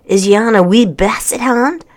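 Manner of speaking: a hint of an old Scottish hermit; curious old Scot; Scottish brogue. A narrator's reading. Scottish man first speaks.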